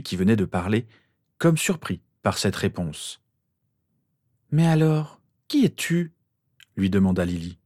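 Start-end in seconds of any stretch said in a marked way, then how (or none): 4.5-6.1 much higher questioning voice; puzzled mother. A narrator's reading. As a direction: ask in a high, puzzled voice.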